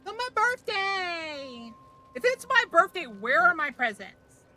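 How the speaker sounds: hammed-up birthday demand; mock demand. Streamer demanding presents from teammate, loud mock.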